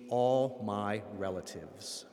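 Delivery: all my relatives, slow and weighty. Shown as a demonstration. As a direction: let all my relatives land slowly. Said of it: "which means".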